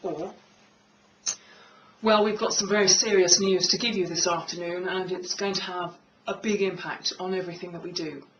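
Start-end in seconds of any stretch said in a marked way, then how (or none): 2.0-8.3 low, grave announcement; low serious voice. Shown as a demonstration. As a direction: deliver it with gravitas. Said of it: "Which are you most likely to take seriously? I would guess the second one".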